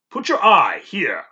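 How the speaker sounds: whispered, slow invitation; doctor showing the boy the microscope; hushed instruction. Acted. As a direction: let him look, hushed.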